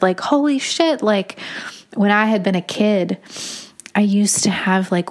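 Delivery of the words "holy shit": startled outburst. Retold or imitated. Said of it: "I burst out with".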